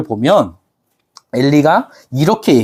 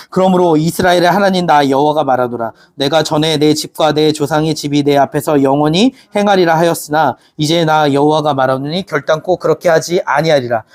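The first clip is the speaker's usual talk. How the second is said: steady, measured scripture read-aloud. Acted. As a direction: read the verse together, evenly. Congregation reads scripture aloud.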